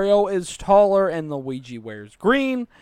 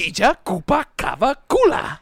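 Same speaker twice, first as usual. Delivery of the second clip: fast, high, loud run of odd names; really fast; 6 semitones higher, 5 dB louder than usual. Shown as a demonstration. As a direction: rattle off the names quickly. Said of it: "say 'em all really fast".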